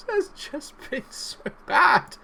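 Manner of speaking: high, slow hammed-up sob; mock crying. Streamer fake-cries about his defender's awful game. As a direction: wail it like a fake crybaby.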